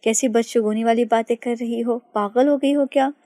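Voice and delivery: a touch of flustered shock; flustered exclaiming. Acted. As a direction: caught off guard and scrambling to object. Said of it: "हड़बड़ा कर बोली".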